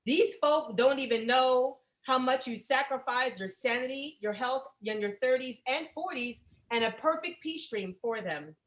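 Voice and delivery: reading card aloud. Acted. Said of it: "let me read this card".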